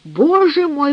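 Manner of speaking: groaning. A narrator's reading. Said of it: "простонал он".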